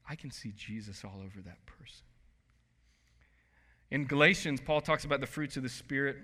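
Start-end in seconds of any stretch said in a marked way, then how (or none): 0.1-2.0 hushed, breathless whisper of the remark. Acted. Pastor to congregation, whispering the remark in awe. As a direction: whisper it like a precious secret.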